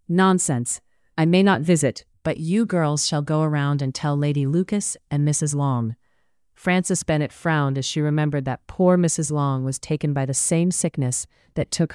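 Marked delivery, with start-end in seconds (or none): 0.1-6.0 lightly voiced haughty matron, brushing objections aside; a hint of a domineering society mother; imperious plummy grande dame. Mrs Bennet overruling daughters.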